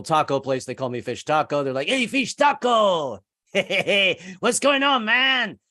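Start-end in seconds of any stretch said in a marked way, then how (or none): 1.9-5.6 a laughing, delighted hello, much higher; excited greeting. Retold or imitated. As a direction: call out like a happy counter guy. Taco guys greeting him.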